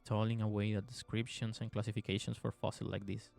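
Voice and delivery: even, measured game narration; story narration. A narrator's reading. Player reading the game's story to viewers, measured narration. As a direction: read the tale out evenly, restrained.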